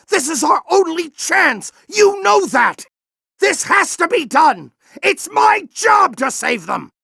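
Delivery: insistent shout. Acted. General shouting at Ratchet that this must be done. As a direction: hammer it home, yelling. Boss fight, arguing.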